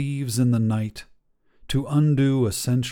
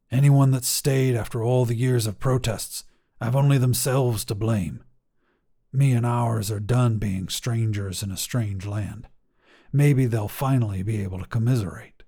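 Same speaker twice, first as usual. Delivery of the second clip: understated, uninflected delivery; mildly deadpan character line; without inflection. Acted. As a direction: keep the voice even, burying the unease. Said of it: "without any inflection in his voice".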